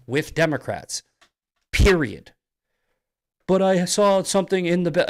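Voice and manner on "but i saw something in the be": whiny mock voice, higher; sneering impression of a critic; mocking objector. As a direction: parody the other side's excuse.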